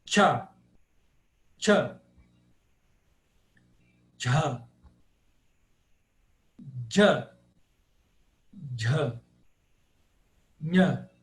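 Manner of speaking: "Tchá" to "nha", each a separate crisp syllable; palatal consonants. Shown as a demonstration. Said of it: "quando você fala as palatais". (sílabas palatais isoladas, "tchá" e "nha")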